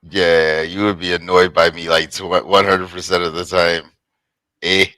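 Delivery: loose mock Canadian accent, ending on eh; half-hearted Canadian accent put on for a laugh. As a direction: lightly play a Canadian to tease. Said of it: "If I sounded like this".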